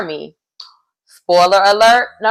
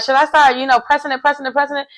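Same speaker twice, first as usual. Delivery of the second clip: flirty quote; 6 semitones higher, faster than usual. Retold or imitated. Retelling a flirty reality-show exchange.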